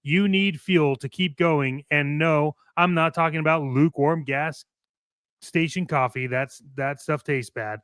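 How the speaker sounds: upbeat commercial announcer voice; ad read. Acted. Co-host reads the fake energy drink ad, punchy announcer. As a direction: sell it like a radio spot.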